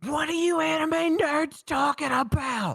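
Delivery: yelling, shouting in a character voice. Voicing a character who looks up at others: yelling in character. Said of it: "he yells".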